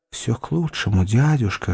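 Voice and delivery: plain reading voice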